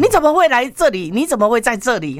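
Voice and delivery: high-pitched startled question; taken aback. Retold or imitated. Wife questions her ex-husband's sudden appearance, taken aback. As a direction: voice the wife's bewilderment, starting high.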